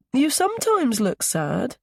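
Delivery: put-on high child character voice; small boy's high voice. A narrator's reading. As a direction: speak up like a little boy. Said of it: "Milo's high voice".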